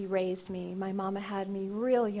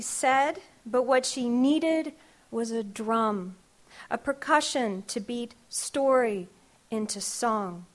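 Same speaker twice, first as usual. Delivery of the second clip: measured, rhythmic spoken-word delivery; poem reading; slower than usual. Acted. Poet reading her grandmother poem to the audience, rhythmic. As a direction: let each image land in the verse.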